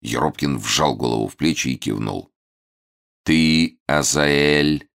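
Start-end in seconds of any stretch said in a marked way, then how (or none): 3.2-4.9 commanding. Acted. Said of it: "приказал старец".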